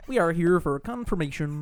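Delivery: strange high-pitched priest; high whiny bishop voice. Retold or imitated. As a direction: whine it like an odd bishop. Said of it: "a little more higher pitched".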